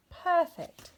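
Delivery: high, loud and pleased; delighted. A narrator's reading. Rabbit and Bear admire their snowman, delighted. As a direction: beam it out together.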